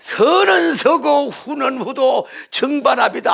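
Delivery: slow, stretched speechmaker's delivery; mock orator's voice. Preacher imagining a superstar speech to the crowd, mock oratory. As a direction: lightly parody a grand public orator. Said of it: "큰 목소리를 해가지고 연설".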